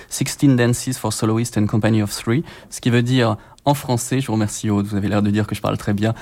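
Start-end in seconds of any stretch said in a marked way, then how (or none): 0.1-2.4 slow English with a real French accent. Real, not acted. Radio guest attempting an English title, strong French accent. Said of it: "malgré mon accent épouvantable".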